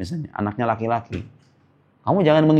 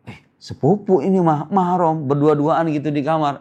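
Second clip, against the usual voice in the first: higher-pitched voice of a dismissive youngster; lightly acted, higher-pitched protest; mock excuse; 3 semitones higher than usual. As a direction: mimic someone brushing off a warning. Acting cousins excusing being alone together.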